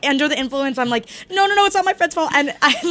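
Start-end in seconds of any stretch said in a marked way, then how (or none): 1.3-2.3 high-pitched mock pleading; groveling. Defending her friends to the bouncer, mock groveling. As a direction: beg on a raised, insistent pitch. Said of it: "Like, I was groveling".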